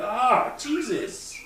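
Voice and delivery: high startled gasp of a word; high, shocked little yelp; startled recoil. Retold or imitated. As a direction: jump back at the ugly sight. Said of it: "you're like".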